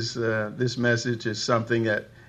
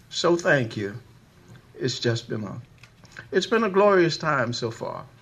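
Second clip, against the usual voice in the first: tearful voice with higher pitch; 3 semitones higher than usual. Speaker thanking the singers in front of the congregation, tearful. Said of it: "excuse me for wiping tears".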